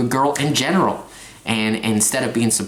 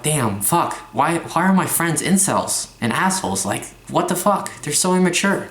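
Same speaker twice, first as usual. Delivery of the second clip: retold exasperation; 6 semitones higher than usual. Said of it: "I'm fucking livid".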